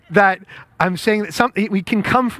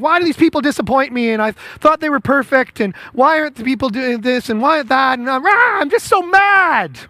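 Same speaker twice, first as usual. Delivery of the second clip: mock indignant whining; 5 semitones higher than usual. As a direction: play a let-down believer griping. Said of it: "And then we're mad and like".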